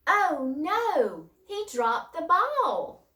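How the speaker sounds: high, loud, drawn-out dismay; acted-out upset outcry for the class; excited exclamation. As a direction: wail it out in alarm, slowly. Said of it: "I'm gonna get excited".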